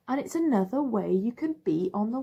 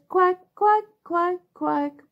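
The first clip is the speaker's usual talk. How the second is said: duck quacking; 6 semitones higher, 6 dB louder, slower than usual. Acted. Mummy Duck calling her ducklings.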